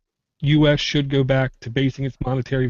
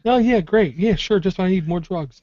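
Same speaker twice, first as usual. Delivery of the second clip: sarcastic; 3 semitones higher than usual. Real, not acted. Sarcastic reply.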